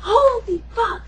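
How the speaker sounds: high, drawn-out exclamation; slow, awestruck retold cry; mock amazement. Acting out guy's exclamation.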